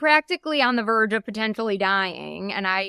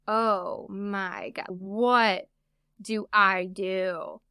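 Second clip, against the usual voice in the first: very slow, drawn-out disbelief; stunned, retold; 2 semitones lower, much slower than usual. Woman reliving the moment of loss, slowly stunned. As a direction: stretch each word out in understated shock.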